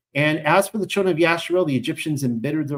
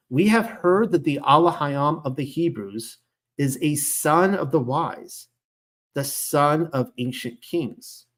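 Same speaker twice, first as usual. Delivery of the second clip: slowed, deliberate reread; slower than usual. Shown as a demonstration. Teacher rereading the verse to the class, slowed and deliberate. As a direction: drag out son of the wise and ancient kings. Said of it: "Let me say that again".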